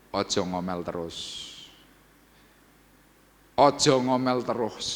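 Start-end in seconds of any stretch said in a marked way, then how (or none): 3.6-4.9 emphatic repeat. Shown as a demonstration. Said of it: "Kalau kamu ingin doamu dijawab".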